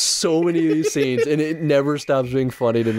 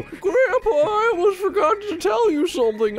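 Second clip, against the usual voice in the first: put-on squeaky kid calling grandpa; eager little kid voice; high childlike voice.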